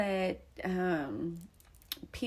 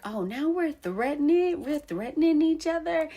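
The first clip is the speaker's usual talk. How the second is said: mock sarcasm; 10 semitones higher, 5 dB louder than usual. Sister's retold sarcastic reply.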